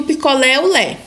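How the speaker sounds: single out the strong "lé" ending of "picolé"; stress on final LÉ. Shown as a demonstration. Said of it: "a sílaba mais forte".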